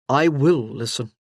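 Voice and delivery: low, grave and sincere; a lightly voiced grave promise; stern brother promising his sister, gravely. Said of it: "he said gravely now".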